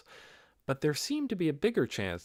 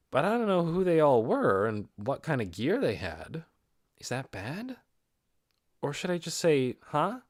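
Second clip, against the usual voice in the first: sheepish confusion to yourself; lightly voiced inner fluster. Ainz privately unsure about the heroes, mildly flustered.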